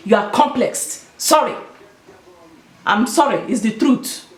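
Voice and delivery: slipping into a light Igbo accent. Real, not acted. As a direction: let the Igbo accent come through naturally. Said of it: "that's my Igbo accent that just came out".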